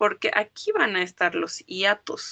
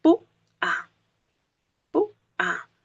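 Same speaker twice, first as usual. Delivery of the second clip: "pu-a" split in two, PU hit hard and high; stress on PU; 8 semitones higher than usual. Shown as a demonstration. Teacher showing students how "pu-a" is pronounced, PU stressed high. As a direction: say "pu-a" slowly, syllable by syllable, PU much higher. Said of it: "Pero por cómo yo lo pronuncio".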